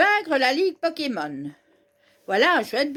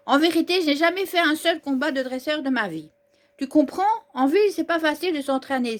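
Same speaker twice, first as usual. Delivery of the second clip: lightly voiced eager young trainer; young hero voice. Player voicing the hero's dialogue to viewers, lightly eager. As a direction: read the hero's lines with a touch of bravado.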